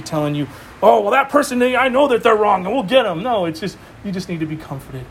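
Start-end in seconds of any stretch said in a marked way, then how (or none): 0.8-3.2 barking at someone. Retold or imitated. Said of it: "someone barking at you".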